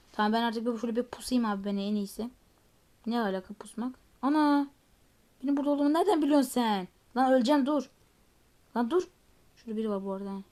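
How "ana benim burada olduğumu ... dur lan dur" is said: loud, higher, rushed panic; panicked. Real, not acted. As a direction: yelp as the enemy finds you. Enemy finds him while hiding.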